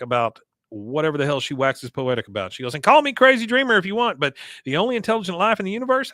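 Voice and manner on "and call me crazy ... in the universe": high, grand mock philosopher; pompous musing. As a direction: declaim it as a self-styled dreamer. Peggy waxes poetic, retold.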